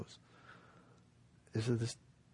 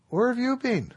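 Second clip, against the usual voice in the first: much higher, loud desperate cry; exasperated outcry; 11 dB louder than usual. Acted. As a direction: cry out after twelve years of waiting. Frustrated monk confronts Maitreya.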